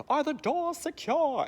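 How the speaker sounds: high-pitched, drawn-out British call; mock British officer checking in; British police voice. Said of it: "In British voices".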